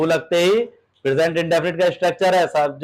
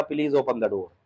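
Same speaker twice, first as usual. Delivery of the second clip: softer, polite asking voice; polite request; 4 semitones lower, 6 dB quieter than usual. Retold or imitated. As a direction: ask the father respectfully, softly. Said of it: "बेटा पापा से कह रहा है".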